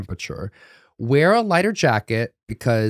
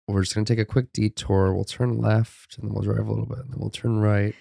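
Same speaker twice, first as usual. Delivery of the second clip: nonchalant calm; 2 semitones lower, 5 dB quieter than usual. Retold or imitated. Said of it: "she was very nonchalant".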